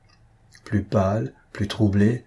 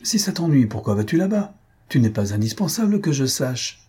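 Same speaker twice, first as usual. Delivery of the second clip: higher, sharp rebuke; irritated exclamation; 4 semitones higher than usual. Acted. Mother scolding her son about the outing, irritated and higher. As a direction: snap back at the son, annoyed. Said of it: "agacée aussi, s'écria".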